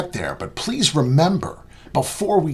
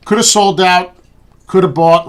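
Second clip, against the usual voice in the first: emphatic; 6 semitones higher, 9 dB louder than usual. Real, not acted. Emphatic recap of missed trades.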